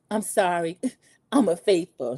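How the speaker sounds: joking with a small laugh between words; little laugh. Retold or imitated. Contestant trying to joke before the reveal, with a little laugh. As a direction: let a little laugh slip out mid-line. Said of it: "She gives this little laugh".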